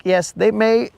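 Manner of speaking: lightly voiced suave guy; mock smooth-talker. To the woman, a mild mock charmer. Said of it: "You'd be all like".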